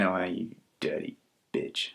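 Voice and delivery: low, slow half-whisper; breathy whisper. Retold or imitated. One usherette to the other, in a slow whisper. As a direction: murmur it slowly, almost without voice. Acted quote of usherette's sultry remark.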